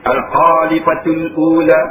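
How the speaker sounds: Al-Khalifatul Ula slow, the long l held; teacher modelling Al-Khalifatul Ula; careful Arabic recitation. Shown as a demonstration. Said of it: "Lam tu panjang".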